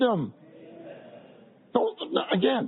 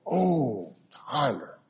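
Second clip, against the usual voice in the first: longing call; 3 semitones lower, much slower than usual. Shown as a demonstration. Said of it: "But what if I say it like this?".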